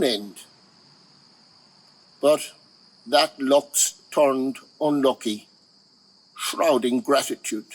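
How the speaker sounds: measured poem recital, phrase by phrase with pauses; deliberate verse delivery with lingering pauses; poetry reading. Acted. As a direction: read the elegy aloud, letting each line stand. Reads short poem aloud.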